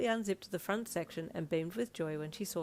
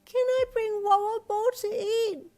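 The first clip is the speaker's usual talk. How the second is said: put-on high, loud, slow child protest; child arguing it's daytime; insistent little girl; 9 dB louder, slower than usual. A narrator's reading. Daughter protesting bedtime to dad, loud child voice.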